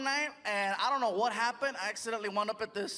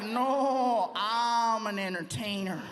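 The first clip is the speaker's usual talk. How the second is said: slow retort near the usual pitch; dry retort; much slower than usual. Acted. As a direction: answer back slowly, without the shrill huff. Comedian's own retort to the dancer.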